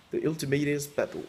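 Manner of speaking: game title in a put-on English accent; lightly hammed-up English accent; mock English accent. Shown as a demonstration. YouTuber showing the game card, in a put-on English accent. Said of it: "Avec mon superbe accent anglais".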